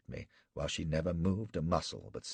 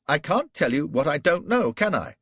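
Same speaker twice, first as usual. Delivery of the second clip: very high, loud frantic shout; panicked shout; 11 semitones higher, 11 dB louder than usual. Acted. Flashman shouting at Gul that he swears he doesn't know. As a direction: shout the denial in terror.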